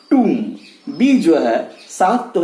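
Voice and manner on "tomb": "tomb" as toom, falling; silent B. Shown as a demonstration. Teacher after spelling it out, silent B. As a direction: say "tomb" ending on M. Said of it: "pronounced as".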